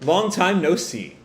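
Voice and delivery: casual, teasing taunt. Acted. Code greeting Kawaki after cornering him, taunting. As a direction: needle an old foe lightly. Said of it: "And Code just taunts him".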